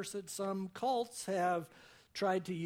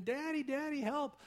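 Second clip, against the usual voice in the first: high-pitched imitation of a frightened little girl; mock panicked cry; 9 semitones higher than usual. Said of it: "she's crying and screaming".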